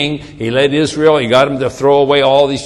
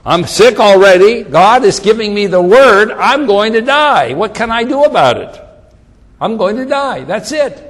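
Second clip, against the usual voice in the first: raised-pitch protest of a doomed man; acted helpless resignation, pitched up; giving up; 4 semitones higher, 4 dB louder than usual. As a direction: plead helplessly, then give up. Voices a doomed sick man.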